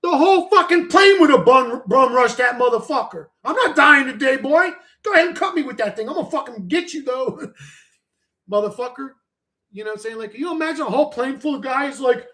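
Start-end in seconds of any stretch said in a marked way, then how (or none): 3.4-7.5 defiant threat. Pretend. Acting out fighting back on the plane.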